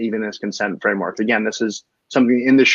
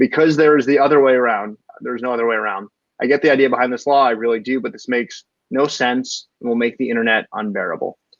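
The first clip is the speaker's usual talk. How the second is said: ordinary delivery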